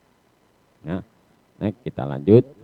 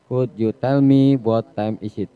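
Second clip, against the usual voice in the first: slow, clear English model phrase; teacher modelling a polite question, slow; slow model sentence; 3 semitones higher, 5 dB louder than usual. Shown as a demonstration. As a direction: read it slowly for the class. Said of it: "Dapatkah kamu menceritakan".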